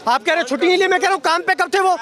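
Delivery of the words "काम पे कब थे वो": "काम पे कब थे वो" pitched high, rising at the end; emphatic repeated challenge. Real, not acted. Man pressing interviewer on leave, "काम पे कब थे वो" as a rising challenge.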